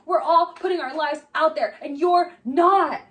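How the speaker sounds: mock yell. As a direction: throw his words back loud. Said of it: "And he's like".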